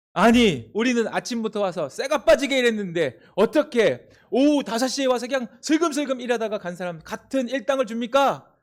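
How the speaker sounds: indignant worker complaining; early worker protesting to the owner, angry. Acted. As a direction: voice the grievance hotly. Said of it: "화를 내니까요".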